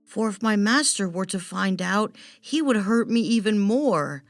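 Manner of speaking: a scared familiar confessing her fear; frightened bat. Acted. Bat voices fear of master.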